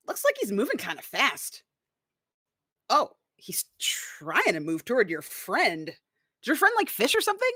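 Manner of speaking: a high, hushed scheming voice that breaks into a squeak; sly character voice. Acted. Player's character whispers about the friend, scheming and high. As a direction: lean in and plot, half-whispered, then jump up high.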